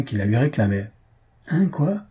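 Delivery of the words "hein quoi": a touchy, higher-pitched what; irritated retort. Acted. Maroquin snapping at the man who claims his seat. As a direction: brush him off, annoyed. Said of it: "dit celui-ci avec humeur".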